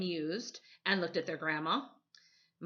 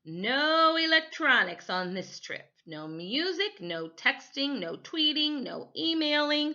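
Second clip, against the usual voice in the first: louder, firm, laying down the rules; stern grandmother; 7 semitones higher, 4 dB louder than usual. Acted. Grandmother to the boys, firmly banning electronics. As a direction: list the bans one by one, firmly. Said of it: "their grandmother scolded".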